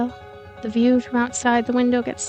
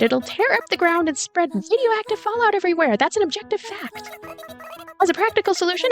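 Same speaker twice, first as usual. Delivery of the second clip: high-pitched, pressing character voice; matter-of-fact girl, urgent; 6 semitones higher than usual. Acted. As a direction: argue the danger urgently as objective fact. Voices Anya warning of explosion.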